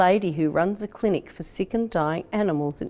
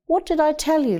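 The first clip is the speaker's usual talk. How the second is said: higher, triumphant; proud dad; 9 semitones higher, 3 dB louder than usual. A narrator's reading. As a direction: crow with pride over the win. Father proud of winning pigeon.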